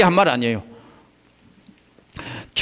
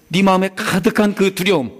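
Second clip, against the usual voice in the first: easing down into calm reassurance; Jesus calming the ruler's fear; reassuring Jesus; 4 semitones higher than usual. Retold or imitated. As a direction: soothe the frightened father. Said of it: "이겁니다".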